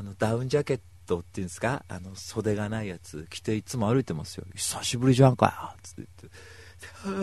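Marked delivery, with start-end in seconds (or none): 4.5-5.8 a touch of a rough tomboy greeting; lightly voiced tomboy. Megumi's greeting again, lightly acted. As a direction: toss off the hello like a rough tomboy. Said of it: "あかねちゃんみたいなさ".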